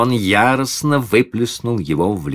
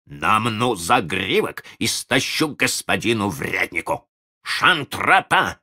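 threatening voice; 4 semitones higher than usual. Acted. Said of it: "говорил угрожающим голосом".

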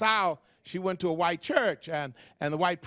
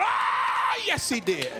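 shouted amen; slower than usual. Retold or imitated. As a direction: break out laughing in praise. Woman shouts amen in church.

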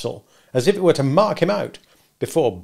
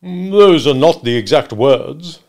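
slow, loud, rising reply; hedging witness; 4 semitones higher, 10 dB louder, slower than usual. Acted. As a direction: stretch it out as you quibble. Wopsle hedges under questioning.

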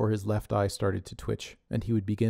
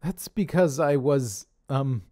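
hesitant; 5 semitones higher, 3 dB louder, slower than usual. Acted. Connor fumbling excuse.

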